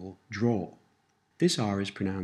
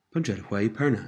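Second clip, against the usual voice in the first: slightly quicker model phrase; a little faster; faster than usual. Shown as a demonstration. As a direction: run the words together a little more briskly. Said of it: "And a little faster".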